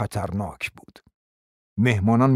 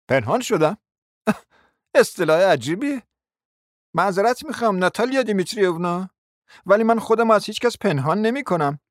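put-on offended young man; 9 semitones higher than usual. A narrator's reading. Mozglyakov voiced, stung.

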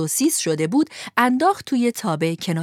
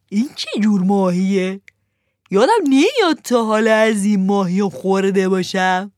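1 a little fearful; 6 dB louder than usual. Acted. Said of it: "با کمی ترس گفت".

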